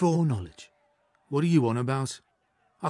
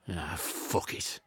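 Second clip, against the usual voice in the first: soft, slow, lower giving up; resigned; 5 semitones lower, 8 dB quieter, slower than usual. Acted. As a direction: let it all go with a sigh. Achilles gives in, resigned.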